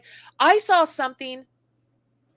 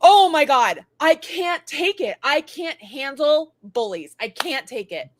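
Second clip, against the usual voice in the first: exasperated outburst; 5 dB louder than usual. Real, not acted. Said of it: "exasperated outburst about bullies".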